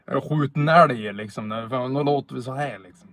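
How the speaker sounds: lightly put-on northern Swedish accent, playful; a hint of a broad Norrland local calling out; Nordic Swede impression. Streamer imitating a typical northern Swede for chat, in a light mock accent. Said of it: "really typical Nordic Swede".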